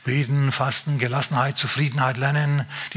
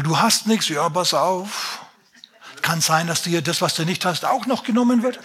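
mock gloomy preacher; 3 semitones higher than usual. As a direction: parody a preacher who promises only suffering. Mocking a poverty-gospel preacher.

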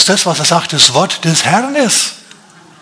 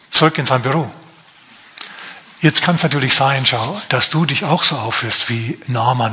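usual speaking voice

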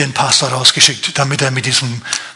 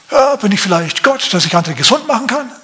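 agitated king; 6 semitones higher than usual. Acted. King voiced in Bible retelling.

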